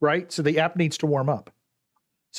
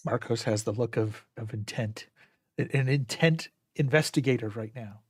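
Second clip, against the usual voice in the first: hushed golf commentary; golf commentator; 3 dB quieter than usual. Acted. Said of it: "my golf voice".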